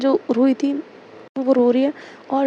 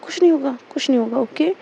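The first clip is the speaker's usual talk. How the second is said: lovingly soothing. Retold or imitated. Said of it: "बड़े प्यार से समझा रही थी".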